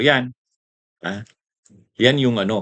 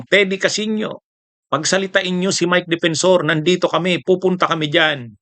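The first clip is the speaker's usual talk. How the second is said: higher mocking plea; mock begging; 5 semitones higher than usual. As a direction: beg to be let in, hammed-up. (pabirong pagmamakaawa)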